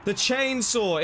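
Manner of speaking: high, delighted gasp at the chainsaw; ooh, hooked by the new find; excited ooh. Real, not acted. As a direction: pitch jumps up in excitement over a weapon. Spots chainsaw in box.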